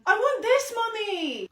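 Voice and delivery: put-on high, loud whining girl; demanding child. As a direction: demand it like a spoilt kid. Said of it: "ten-year-old".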